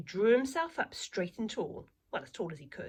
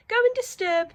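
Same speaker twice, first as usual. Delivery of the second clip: slip of the tongue; 10 dB louder than usual. Acted. Mother slips, corrects herself.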